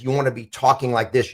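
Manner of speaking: standing tall, face up, steady voice; upright, confident phone voice; powerful posture. Shown as a demonstration. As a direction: talk like you own the call. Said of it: "you're more powerful like this".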